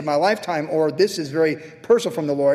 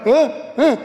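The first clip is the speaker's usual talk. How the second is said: startled, higher and louder double huh; baffled huh; 7 semitones higher, 4 dB louder than usual. Retold or imitated. Pastor retells seeing a crow with a bagel, startled and higher. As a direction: react in disbelief at the crow. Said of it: "I'm like".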